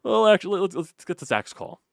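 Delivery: jumps up high and loud; sudden excited. Real, not acted. Host cutting back to the call, excited. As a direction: burst in, suddenly hyped.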